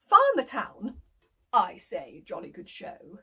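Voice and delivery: a hint of a posh gentleman; lightly voiced snooty farmer. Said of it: "I'm ever so posh".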